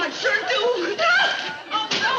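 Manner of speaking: terrified that it's a bomb; frightened cry. Acted. Joan convinced the package is a bomb, panicked cry.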